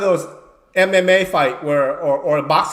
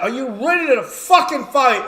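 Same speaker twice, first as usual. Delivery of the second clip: referee hype call; 7 semitones higher than usual. Retold or imitated. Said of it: "we say".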